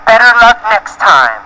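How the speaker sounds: high, lightly acted call; mock yell. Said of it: "He yelled".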